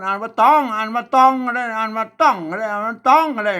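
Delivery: ตอง and ต้อง contrasted by tone, pitched high; three tone readings. Shown as a demonstration. Teacher showing learners three possible readings, changing the tone on ตอง and ต้อง. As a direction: step through ตอง, then ต้อง, each tone distinct. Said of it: "มันได้สามเสียงนะ".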